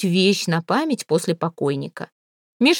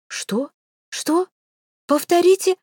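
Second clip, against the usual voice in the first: much higher, outraged yell; 11 semitones higher, slower than usual. A narrator's reading. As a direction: shriek in disbelief and rage. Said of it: "заорал молодой блондинчик". (возмущённо орёт, очень высоко)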